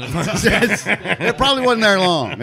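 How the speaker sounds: slow, laughing through it. Real, not acted. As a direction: chuckle the words out slowly. Repeats the line laughing.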